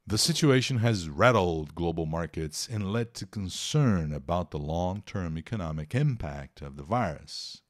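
reading the English news paragraph aloud. Acted. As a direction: read it like a news item, steady. Reads English news text aloud. (leitura de notícia em inglês)

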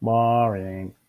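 lightly voiced monotone alien; hint of a listless alien voice; bored alien. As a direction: drone it with no interest. Bored alien dismisses the idea.

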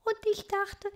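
high, gasping after laughter; breathless from laughing. Acted. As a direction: catch your breath between laughs. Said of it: "nach Luft schnappend".

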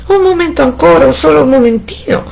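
wife implores her husband; imploring. A narrator's reading. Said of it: "implorò la meschina".

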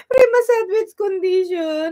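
laughing, shouting the words out; giddy laughing shout. Real, not acted. Shrieking laughter after squeal.

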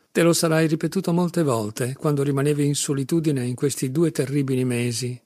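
composed, evenly articulated telling; calm, measured. A narrator's reading. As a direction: spell it out calmly. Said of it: "con il tono pacato e scandito di prima". (tono pacato e scandito)

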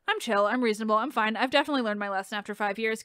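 deadpan sarcasm, fast at the end; sarcastic. Acted. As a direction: say it so nobody believes it. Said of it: "Can you hear the sarcasm?".

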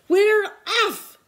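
high, loud cheer; crew shout. A narrator's reading. Pirate crew cheers setting sail: loud shout. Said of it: "they all shouted".

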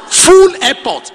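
slow, high Full airport; a drawn-out, astonished Full airport; amazed exclamation. Real, not acted. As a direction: stretch Full airport in disbelief. Amazed preacher.

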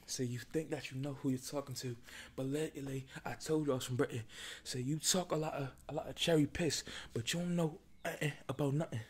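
lightly put-on, shaky-accuracy British; mock British accent. Host testing an accent on viewers, rough British. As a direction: have a go at a cheeky British accent. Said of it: "maybe I should do a British accent".

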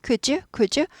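"Could you" run together as "kujoo"; smoothly linked could you. Shown as a demonstration. Teacher repeating the model for students, smoothly linked. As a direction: blend "Could you" with a j sound in the middle. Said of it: "부드럽게 되죠".

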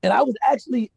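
normal talking voice

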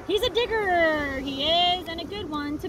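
lightly voiced pirate calling out. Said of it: "yelled back to his crew".

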